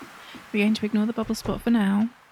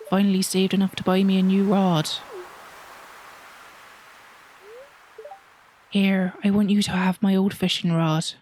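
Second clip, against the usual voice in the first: put-on old sea-dog accent, rolled out with gusto; Willy's accent. Fisherman hands his old rod to a newcomer, seafaring accent. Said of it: "that is Willy's correct accent".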